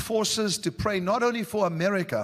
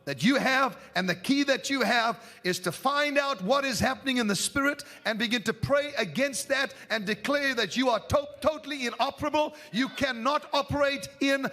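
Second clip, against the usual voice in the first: forceful preaching; 8 semitones higher than usual. Real, not acted.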